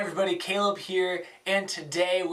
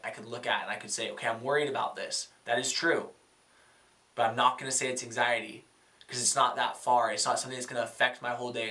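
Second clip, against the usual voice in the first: lower, measured talking to oneself; calm self-talk; 3 semitones lower than usual. Acted. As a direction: pause and reason it through calmly. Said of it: "You take a breath".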